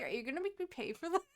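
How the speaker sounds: imitating a stunned girl fretting over the bill; mock disbelief. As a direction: rush it out in baffled worry. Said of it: "And she's like".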